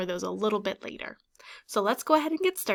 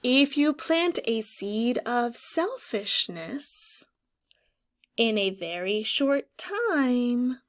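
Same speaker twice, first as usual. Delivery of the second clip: slow dramatic read, last words whispered; story reading; slower than usual. Acted. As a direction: read the warning line slowly to the class. Reading the book line.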